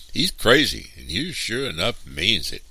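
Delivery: high, loud, scared warning; frightened. A narrator's reading. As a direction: blurt it out in alarm. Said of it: "another frightened lumberman ventured".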